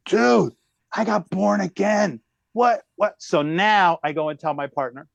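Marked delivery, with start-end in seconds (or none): 0.1-3.1 surprised. Retold or imitated. Retold astonishment at being born again.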